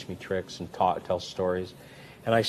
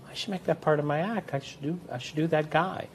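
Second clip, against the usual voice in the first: excited idea; 7 semitones higher than usual. Retold or imitated. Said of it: "and I go".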